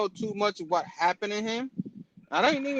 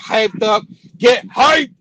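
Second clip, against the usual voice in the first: excited; 3 semitones higher, 11 dB louder, much slower than usual. Real, not acted. Hyping up his buddy.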